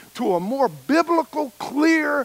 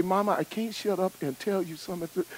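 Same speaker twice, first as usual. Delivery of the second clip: whispered back-talk; 2 semitones lower, 9 dB quieter than usual. Retold or imitated. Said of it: "I whispered that".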